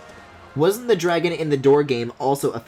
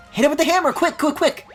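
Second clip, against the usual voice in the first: excited; 13 semitones higher, 4 dB louder than usual. Acted. Urgent in-game call to hit.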